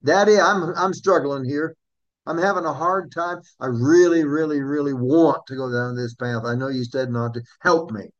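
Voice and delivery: put-on a child begging their father for help; pleading prayer. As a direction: beg Daddy for help, struggling. Voices a believer praying for help.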